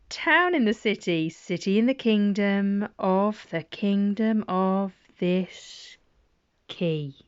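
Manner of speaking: measured, rhythmic storybook read building the chain; reading to children. Acted. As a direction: lead the little listener link by link. Parent reading rhyme to child.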